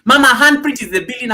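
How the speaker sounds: high, loud welcome; excited announcement. Real, not acted. Streamer announcing Mama Handprint, excited announcement. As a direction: proclaim the arrival.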